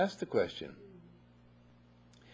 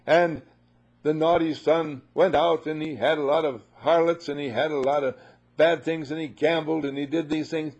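mock moralizing preacher; 3 semitones higher, 5 dB louder than usual. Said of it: "Instead of saying".

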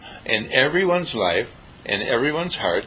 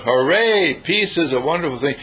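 mock cheer; 3 semitones higher, 3 dB louder than usual. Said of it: "they shout".

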